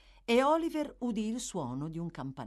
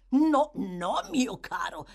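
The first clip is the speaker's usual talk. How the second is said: Fagin refusing; 3 semitones higher, 7 dB louder, slower than usual. A narrator's reading. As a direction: refuse with oily insistence. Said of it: "disse l'ebreo".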